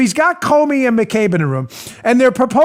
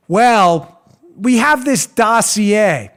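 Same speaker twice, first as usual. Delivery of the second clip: slow mock reply; much slower than usual. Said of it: "the third question would be".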